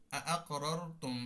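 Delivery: আকরারতুম drawn out slowly, falling at the end; slow demo. Shown as a demonstration. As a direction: model আকরারতুম slowly for the class. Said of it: "যেমন". (ধীরে আকরারতুম উচ্চারণ)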